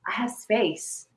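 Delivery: relieved inner voice. Retold or imitated. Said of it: "and you're like".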